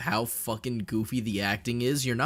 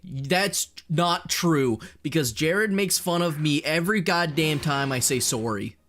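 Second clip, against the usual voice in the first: indignant protest; 4 semitones higher than usual. Real, not acted. Streamer defending his Canadian speech to chat, indignant protest. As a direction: protest as if teased once too often.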